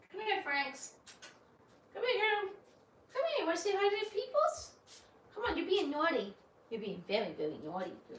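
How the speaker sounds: high, cooing mock scolding; pet talk. Real, not acted. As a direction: tease the naughty puppy. Scolding the dog sweetly.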